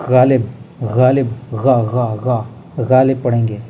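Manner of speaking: गालिब with a throaty gh; teacher drilling गालिब; nukta gh. Shown as a demonstration. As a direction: roll the गा from the throat. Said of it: "अब इसको हम पढ़ेंगे".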